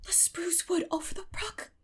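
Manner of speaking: hushed, breathless whisper. A narrator's reading. Anne naming the haunted wood to Marilla, whispered. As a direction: whisper it like a secret. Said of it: "said Anne in a whisper".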